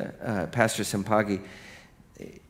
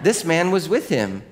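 put-on higher little-girl line through laughter; laughing accusation; 6 semitones higher, 3 dB louder than usual. Servant girl points at Peter, higher and laughing. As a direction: tattle on him, giggling.

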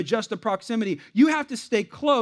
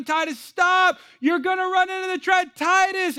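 high, urgent shouted warning; retold scream; 9 semitones higher than usual. Dad warning son about the trash can, screaming. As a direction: holler a warning to a child far off. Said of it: "I'm screaming at him".

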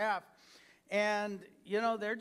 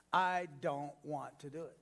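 sulky attitude; 5 semitones lower than usual. Retold or imitated. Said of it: "get attitude".

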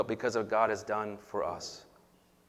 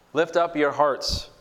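call and response; 5 semitones higher, 5 dB louder, slower than usual. Real, not acted. Liturgical call to congregation.

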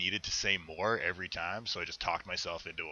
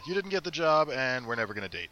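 mock interviewer; 4 semitones higher, 3 dB louder than usual.

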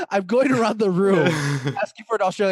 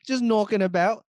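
higher mock-Australian with a rising end; jokey Australian lilt; bad Australian accent; 5 semitones higher than usual. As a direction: parrot it in a dodgy Aussie accent. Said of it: "You guys are bad at accents".

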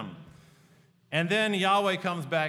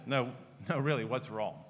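gentle concern; 3 semitones lower than usual. Retold or imitated. Wife gently asks again after rant.

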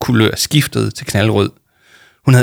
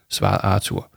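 ordinary delivery, nothing marked

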